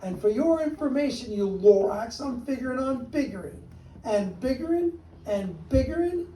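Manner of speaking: the Onceler yelling back at the Lorax; yelled. Acted. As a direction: shout him down. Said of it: "I yelled at the Lorax".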